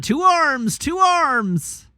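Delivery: rally the guards with a shout; raising the alarm. Acted. Guard shouting to rouse everyone to arms, loud.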